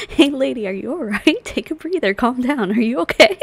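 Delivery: mock concerned calling out. Mock concern for breathless woman.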